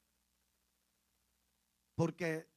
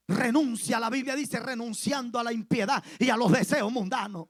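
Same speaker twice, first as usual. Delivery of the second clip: loud, insistent preacher commanding renunciation; fiery sermon exhortation, loud; preaching at full force; 9 dB louder than usual. Acted. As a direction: drive it home from the pulpit.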